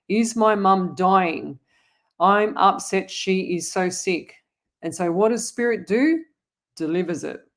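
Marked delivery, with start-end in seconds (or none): 0.1-4.3 slow, drawn-out worried question; imitating worried plea. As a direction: mimic her anxious asking, slowly. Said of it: "and you're saying".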